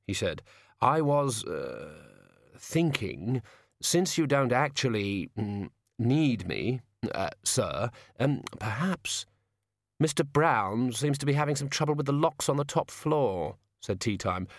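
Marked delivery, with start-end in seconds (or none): 0.8-9.3 slow, halting, uncertain suggestion; hesitant wizard. Acted. Sidney hedging before his boss. 10.0-13.6 higher, lightly voiced polite villain; politely menacing boss.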